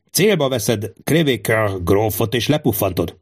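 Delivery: lightly voiced king giving careful orders; a hint of a monarch drilling his guard; commanding king. (parancsoló király enyhén színezett, megfontolt hangja)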